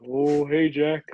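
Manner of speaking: lightly imitated awkward fellow; a hint of the boss's awkward way of talking. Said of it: "he's a real awkward feller".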